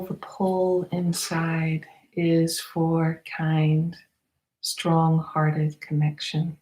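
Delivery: unhurried meditation guide with long pauses; spacious, measured meditation leading; guided meditation. Acted. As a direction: guide listeners gently inward, phrase by phrase.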